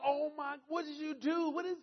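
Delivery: high, loud imitation of a weeping wife; mock crying. Wife reacting to the surprise Cadillac, mock crying. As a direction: wail it like an overwhelmed wife. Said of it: "she's crying, right?".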